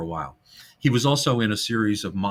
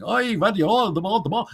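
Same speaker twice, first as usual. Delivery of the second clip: put-on much higher comic Yiddish-Jewish kid voice; Yiddish-Jewish accent; 10 semitones higher, faster than usual. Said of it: "Jewish with the accent and everything".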